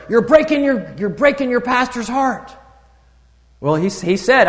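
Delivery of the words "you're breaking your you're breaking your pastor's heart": much higher, louder scolding; a boy rebuking the old drunkard, loud; loud rebuke. Retold or imitated. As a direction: hammer the accusation home. Strong word retold.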